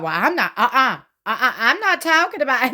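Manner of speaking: laughing while refusing to talk; laughing dodge. Retold or imitated. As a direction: brush it off through a chuckle, high on the last line. Cody dodging the question, laughing.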